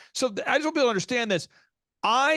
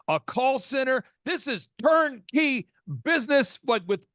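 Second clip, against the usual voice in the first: hyped sales pitch; 4 semitones higher than usual. Retold or imitated. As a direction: sell it like a hype man, baby. Retold hype pitch of the system.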